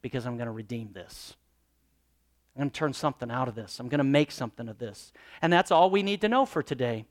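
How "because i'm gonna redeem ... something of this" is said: voicing God, softer and lower, tender reassurance; a pastor voicing God gently comforting his child; gentle voice of God. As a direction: speak to a frightened child, quietly. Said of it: "the Lord is saying".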